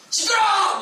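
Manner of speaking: high, loud yell; king yelling at Paul; shouting. Acted. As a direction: shout across the court. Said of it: "소리 지르면서 말하니까".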